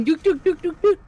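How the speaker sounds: playful ferret dooking. Retold or imitated. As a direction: bounce out little ferret dooks. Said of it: "I'll be coming about going".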